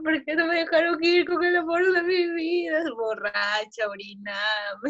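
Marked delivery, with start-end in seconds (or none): 0.0-2.8 retold crying.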